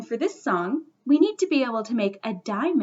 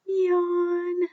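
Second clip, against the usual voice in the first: long, higher-pitched mock yawn; pretend yawn; 4 semitones higher than usual. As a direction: draw out a big sleepy yawn. Acts out the fox's yawn.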